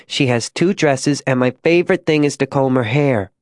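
lightly voiced small child, chatting about a doll; artless, contented girlish chatter; innocent little girl.

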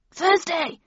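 high, loud anxious call; anxious yell. A narrator's reading. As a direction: call out upstairs in a panic. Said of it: "yelled Randolph anxiously".

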